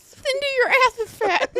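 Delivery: mock mean mom.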